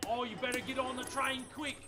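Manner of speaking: bad Australian accent. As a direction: play a tour guide in a cheesy Australian accent. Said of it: "all about the bad Australian accent express".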